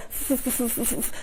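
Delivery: repeated stuck f sounds; stutter demo. Shown as a demonstration. Therapist imitating a stuttering child, mild stutter. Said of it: "ele, ah".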